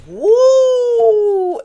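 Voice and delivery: held high whoop, loud; excited woo. Real, not acted. Reader cheering as a card peeks out, high whoop. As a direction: celebrate like the team just scored.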